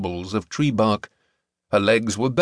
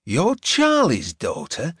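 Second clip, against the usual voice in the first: gasped; 4 semitones higher, slower than usual. A narrator's reading. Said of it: "he gasped".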